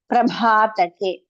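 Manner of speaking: Prabhatake with a breathy aspirated bha, said slowly; slow teaching model of Prabhatake. Shown as a demonstration. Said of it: "The bha is the fourth bha".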